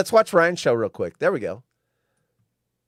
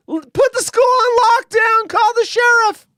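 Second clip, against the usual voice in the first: much higher, louder hammed-up alarm; mock panic; 7 dB louder than usual. Host mocking the school's overreaction to laser tag, hammed-up alarm. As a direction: yell it like a sarcastic emergency.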